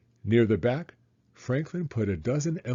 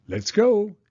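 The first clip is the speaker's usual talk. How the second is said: much higher, louder cheer; excited shout; 11 semitones higher, 6 dB louder than usual. A narrator's reading. Bear starting the sled ride, shouting excitedly. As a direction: call it out with glee. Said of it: "he shouted".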